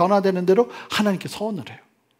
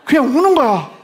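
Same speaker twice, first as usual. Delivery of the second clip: loud, laughing as you speak; laughing loudly; 6 semitones higher, 6 dB louder than usual. Real, not acted. Preacher laughing about crying after the fight, laughing loudly.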